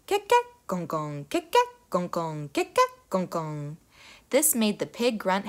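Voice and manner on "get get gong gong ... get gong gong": frog chorus. A narrator's reading. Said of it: "all together they would sing".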